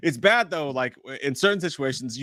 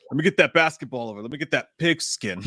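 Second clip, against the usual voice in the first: tough jock voice; 5 semitones lower than usual. Retold or imitated. Guy at a pickup game talking like a badass, lower voice. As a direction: act like a tough baller. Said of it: "why am I talking like I'm badass".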